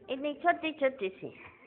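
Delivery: very soft, as if showing something minute; hushed wonder. Real, not acted. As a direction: keep it small and hushed. Marvels at tiny souls. (नन्ही चीज़ जताती बहुत धीमी आवाज़)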